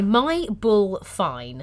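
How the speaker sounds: slow, drawn-out Australian accent demo. Shown as a demonstration. Co-host showing the Australian accent hack, slowly. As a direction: stretch each word into a mock Australian twang. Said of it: "So this accent hack".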